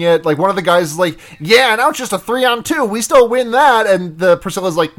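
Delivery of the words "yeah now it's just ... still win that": slightly higher mock thug brag; lightly voiced alley punk; cocky punk retelling. Podcaster quoting one of the alley punks, cocky.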